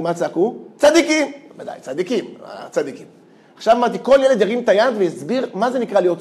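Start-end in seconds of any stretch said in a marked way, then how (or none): 0.8-1.3 high, loud mock chorus of kids; kids' shout. First graders shouting the answer together, loud mock chorus. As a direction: shout it like the whole class at once. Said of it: "כולם צעקו".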